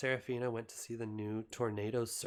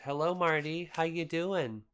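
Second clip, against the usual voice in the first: bright, louder and higher hello; greeting the cat; 6 semitones higher, 7 dB louder than usual. Real, not acted. Owner greeting her cat Marty, loud and high. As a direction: call out to a pet who just came in.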